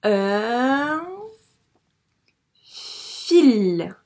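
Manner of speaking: loud, stretched un fil; loud decoding. Shown as a demonstration. The teacher reads un fil loudly to correct the pupil. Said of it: "Mot outil".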